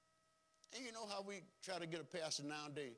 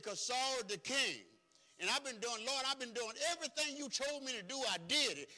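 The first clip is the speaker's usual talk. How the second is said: a hint of pleading Samuel; 9 semitones higher, 7 dB louder than usual. Samuel complaining to God, a touch of pleading. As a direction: lay the complaint before the Lord.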